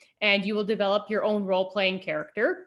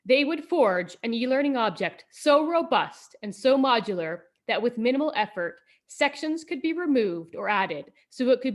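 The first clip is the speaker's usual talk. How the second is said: epic quest narrator voice; storybook narration. Acted. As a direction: tell it like a fantasy saga.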